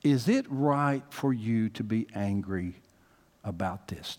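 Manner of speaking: lightly voiced God gently probing his prophet; God calling out to Jonah, then asking slowly. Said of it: "the statement that God asked Jonah".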